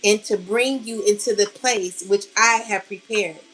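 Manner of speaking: measured, solemn Bible reading; scripture reading. Acted. Spiritual reader reciting scripture to her collective, solemn. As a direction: read it out like a verse from the pulpit.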